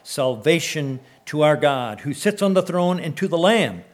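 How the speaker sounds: fervent, ringing Bible reading; scripture reading. Acted. Pastor reading scripture to his church, fervent and ringing. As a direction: proclaim the passage to the congregation. Pastor reads Revelation aloud.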